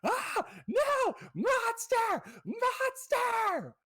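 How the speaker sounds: put-on shrieking little boy, very high and loud; high, loud screaming kid; terrified child scream. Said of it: "he's just going".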